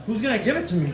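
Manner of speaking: hesitant, mock-innocent question; playing dumb. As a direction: feign a clueless son. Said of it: "I play dumb".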